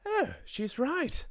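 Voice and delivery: very high, drawn-out squeal; another witch crying out. A narrator's reading. Another witch agrees with Mildred, high squealed cry. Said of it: "cried another voice".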